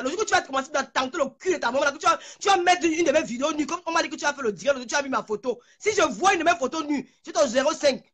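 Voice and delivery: normal talking voice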